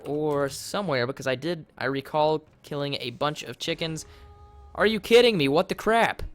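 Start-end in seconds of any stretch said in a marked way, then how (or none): 4.8-6.2 higher, louder outrage; outraged shout. Real, not acted. Player seeing his stuff destroyed, outraged shout. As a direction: blow up in disbelief. Sudden loss in game.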